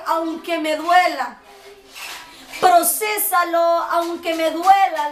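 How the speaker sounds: slow, pleading surrender; slow earnest plea. Retold or imitated. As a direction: give it up to God, drawn out. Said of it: "le dije". (súplica lenta y entregada)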